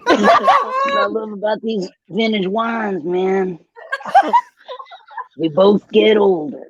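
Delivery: slow, laid-back Texas drawl; easygoing Southern charm; Matthew McConaughey voice. Acted. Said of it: "you have to do an impression too".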